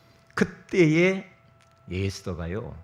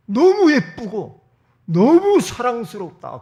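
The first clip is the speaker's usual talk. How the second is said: loud, slow, awestruck king; dazzled king declaring his love loudly; smitten king; 12 semitones higher, 11 dB louder, slower than usual. Acted. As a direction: gush over her beauty, drawn out. King smitten by Esther's beauty.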